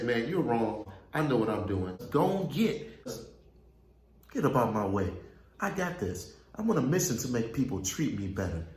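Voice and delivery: acted stubborn retort, rising in bursts; defiant brush-off. Proving a friend's advice wrong, acted defiance. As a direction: wave off advice, sure of yourself. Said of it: "So we'll go overboard to say".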